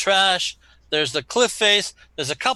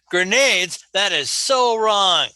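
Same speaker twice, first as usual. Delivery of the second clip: higher, drawn-out mock spectator protest; disapproving spectator; 4 semitones higher, 4 dB louder, slower than usual. Game master imitating viewers objecting to grenades, drawn-out mock disapproval. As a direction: voice an incredulous viewer, stretching the words out. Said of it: "Every spectator that's watching this show says".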